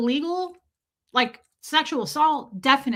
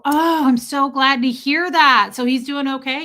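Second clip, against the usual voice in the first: gushing; 2 semitones higher, 4 dB louder than usual. Retold or imitated. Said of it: "And I would go".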